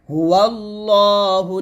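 "হুয়াল্লাহুল্লাযী" chanted slowly with a thin zaal; tongue at the upper front teeth for the যী in "হুয়াল্লাহুল্লাযী"; thin zaal sound. Shown as a demonstration. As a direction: slowly intone "হুয়াল্লাহুল্লাযী", softening যী to a light dh. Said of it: "পাতলা করে উচ্চারণ করবেন".

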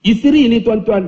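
ordinary talk

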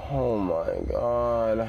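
drawn-out, slow breathless recovery; slow shaken sigh. Real, not acted. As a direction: let the fright drain out slowly. Drawn out after the scare.

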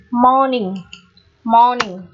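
"Morning" with a long open O before a silent R. Shown as a demonstration. Teacher modelling question five, long O in "Morning". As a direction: hold the first vowel of "Morning". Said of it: "âm O này sẽ là O dài".

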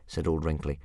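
put-on old soothsayer. Old Wrinkly to Hiccup, slow and grand. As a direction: paint the sea dragon's vastness.

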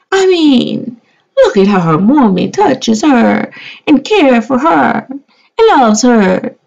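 high, sassy mock-indignant voice; sassy diva challenge. To doubting viewers: high, sassy and indignant. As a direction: dare them to say she isn't cute.

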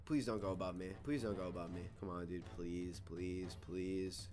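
low, soft repeated begging; quiet pleading. Real, not acted. Gamer begging opponent not to go above, quiet pleading. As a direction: beg under your breath.

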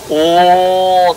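「おー」と短く声を上げて見せる; 客に求める歓声の見本として「おー」; 「おー」の見本. Shown as a demonstration. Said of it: "って言えって". (観客に求める「おー」の見本)

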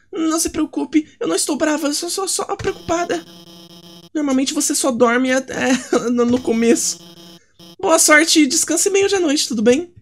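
high-pitched teacher character. Acted. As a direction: chirp like a fussy little teacher.

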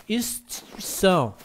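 "Instituição" said slowly, as a Portuguese speaker; Portuguese-accented. Shown as a demonstration. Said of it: "como português". ("Instituição" com sotaque de Portugal)

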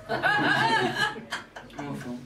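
a high burst of laughter, then the word; laughing. Real, not acted. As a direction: laugh it out, appalled. Laughs at Ronald McDonald idea.

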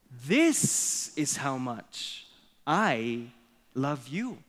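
very slow, stretched papa rabbit; a big papa answering, each word drawn out; father rabbit. Acted. Father rabbit answering his little one, slow and measured. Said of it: "And the father responds".

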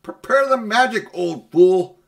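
loud, high, imperious order; queen barking a command at an old man; commanding witch. Acted. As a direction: order him about like a furious queen. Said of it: "said Jadis".

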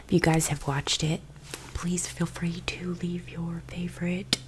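breathy ASMR whisper. Acted. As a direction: whisper close to the mic.

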